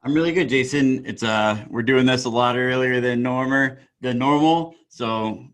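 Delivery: groggy just-woke-up voice; morning voice. Real, not acted. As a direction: still waking up, voice not warmed up. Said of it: "excuse my morning voice".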